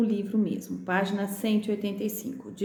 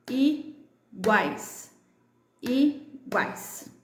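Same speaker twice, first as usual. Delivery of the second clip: "iguais" split i - guais; two separate beats, i, then guais; syllable by syllable; 3 semitones higher, much slower than usual. Shown as a demonstration. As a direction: clap out "iguais" with a clear gap. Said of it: "aquelas que eu bati com vocês".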